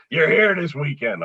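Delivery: a touch of gruff, bossy agent; grumpy manager. Retold or imitated. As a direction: imitate a curt old manager giving orders. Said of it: "the grumpiest old dago you'd ever meet".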